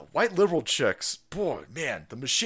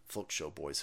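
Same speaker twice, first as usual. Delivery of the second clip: whispered aside; 12 semitones lower, 18 dB quieter, faster than usual. Real, not acted. Aside muttered to chat.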